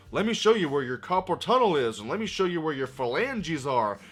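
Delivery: mocking imitation of a quipping hero; teasing quips. Reviewer imitating a hero teasing thugs, mock quipping. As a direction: toss out taunts in hammed-up teasing style. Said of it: "He starts quipping out of nowhere like Spider-Man teasing these thugs".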